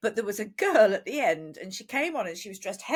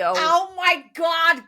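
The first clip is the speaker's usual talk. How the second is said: high, loud, drawn-out gush; slow, high mock gushing; gushing put-on voice; 8 semitones higher, 9 dB louder, much slower than usual. Signing off to listeners, high loud gushing voice.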